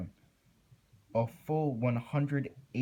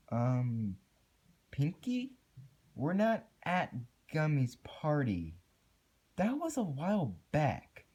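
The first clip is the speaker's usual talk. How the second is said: confused; 5 semitones higher than usual. A narrator's reading. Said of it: "responded a confused Twilight".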